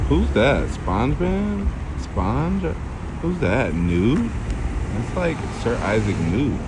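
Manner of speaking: a hint of a gushing girl voice. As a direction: play a chatty girl reading a flyer. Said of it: "I'm doing, like, a girl voice".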